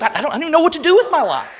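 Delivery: high-pitched, rushed, stammering distress; acted-out anguish, voice lifted high; retold weeping. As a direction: imitate a distraught woman without real sobs. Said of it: "she would weep".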